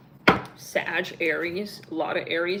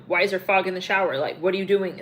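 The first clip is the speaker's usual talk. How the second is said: fast and louder, suspicious; paranoid accusation; 5 dB louder, faster than usual. Retold or imitated. Paranoid man questioning his partner in the shower, fast and suspicious. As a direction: rush the questions like a jealous husband. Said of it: "He's paranoid".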